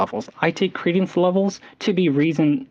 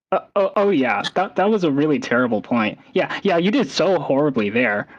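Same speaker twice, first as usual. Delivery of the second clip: sarcastic tone. Shown as a demonstration. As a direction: fake compliment dripping with sarcasm. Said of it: "I'm using a sarcastic tone".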